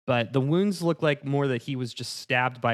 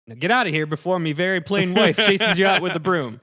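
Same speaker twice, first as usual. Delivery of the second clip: put-on angry old man; 6 semitones higher, 6 dB louder than usual. Jim upset, shooing player away.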